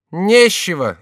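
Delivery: high, loud mocking lisp; jester's retort. A narrator's reading. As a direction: snap back like a lisping jester. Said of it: "сказал Шико". (высокий насмешливый выкрик шута)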